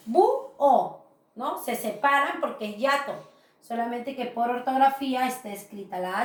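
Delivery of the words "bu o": bu, o split into two beats; syllable by syllable. Shown as a demonstration. Teacher showing that the H is silent, syllable by syllable. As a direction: sound out bu and o apart, clearly. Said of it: "Como si".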